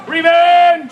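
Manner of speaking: high, theatrical battle cry. Acted. Bereaved heroine swearing revenge, high theatrical cry. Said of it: "She cries".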